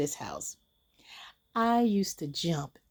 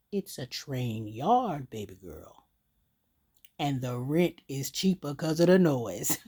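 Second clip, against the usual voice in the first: amused daddy; 5 semitones lower than usual. Acted. Daddy explaining the train yard to his little girl, amused. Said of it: "my daddy laughed and he said".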